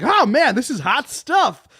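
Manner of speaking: re-enacted video patter. Introducing himself in a video to the audience, mock excited.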